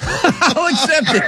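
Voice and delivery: laughing through the words. Real, not acted. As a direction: chuckle as you concede it. Laughing while accepting answer.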